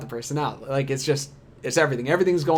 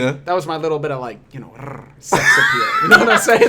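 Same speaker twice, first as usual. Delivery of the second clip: mock girlfriend voice; 6 dB louder than usual. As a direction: tease her words with a purring rrr. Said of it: "She was like".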